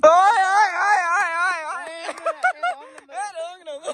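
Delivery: high laughing cries of disbelief; excited laughing shout. Real, not acted.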